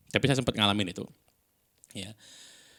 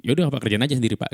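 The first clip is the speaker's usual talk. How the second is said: higher, louder, quick irritated retort; retold angry dismissal; 4 semitones higher, 5 dB louder, faster than usual. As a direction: re-enact losing your cool with a client, fast and raised. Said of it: "saya nggak bisa kontrol emosi". (menirukan jawaban kesal, cepat dan meninggi)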